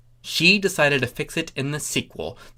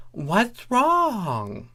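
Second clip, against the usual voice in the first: Thorax voice; 8 semitones higher than usual. Acted.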